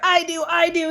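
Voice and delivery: high eager calling out; eager shout. A narrator's reading. Sheldon calls out eagerly to answer the teacher, high. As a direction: hand up, dying to answer. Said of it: "he shouted".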